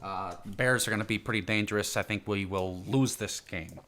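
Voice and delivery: lightly imitated Chicago accent; a hint of mock Chicago Bears fan. Podcaster staying in character on Ditka, mock Chicago accent. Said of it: "stay in character".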